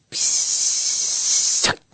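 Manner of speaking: very long, soft hissed "pssst"; whispered shush. A narrator's reading. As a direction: stretch out a voiceless hush. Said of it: "súgta neki Jócsont".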